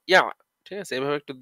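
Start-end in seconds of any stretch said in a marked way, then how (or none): 0.1-0.2 ইয়া closed on a throat-caught ain; stopped on ain. Shown as a demonstration. Teacher showing students the ain, ending caught in the throat. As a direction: catch the end of ইয়া in the throat. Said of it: "ইয়া এবং আইনের সাথে এভাবে হবে".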